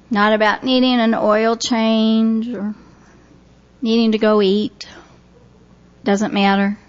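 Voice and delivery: calm, unhurried guiding voice with long pauses; guided meditation. Real, not acted. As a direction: ease listeners gently into relaxation. Leads relaxation and visualization.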